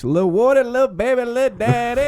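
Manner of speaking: squeaky high voice. Pretend. Imitation continues, squeaky voice.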